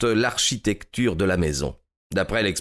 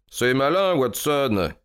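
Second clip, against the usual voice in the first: higher-pitched, mildly cutting reproach; cold exclamation; 6 semitones higher, slower than usual. A narrator's reading. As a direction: exclaim it coolly at a clumsy companion. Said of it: "s'exclama-t-il froidement". (exclamation froide, un peu haute)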